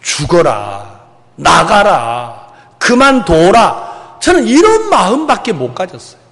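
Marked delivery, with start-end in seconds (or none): 0.0-4.2 slow, heavy mock rebuke to a son; a father's muttered "get out", half-performed; bitter dismissal. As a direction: drag out each curt order. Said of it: "어떤 마음을 가졌느냐면요".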